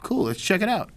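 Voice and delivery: high, bright-eyed let's check it out; imitating eager interest. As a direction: act keen to see the tattoo. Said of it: "And he goes".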